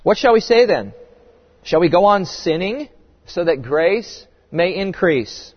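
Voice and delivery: measured, lifted Bible reading; solemn public reading of scripture. Acted. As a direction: read the passage with weight.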